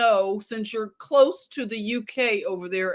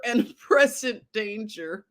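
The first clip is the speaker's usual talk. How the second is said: breaks into a laugh mid-headline; can't keep a straight face on the word present; laughing while reading. Real, not acted. Host cracks up reading a news headline, laughing. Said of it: "I can't read it with a straight face".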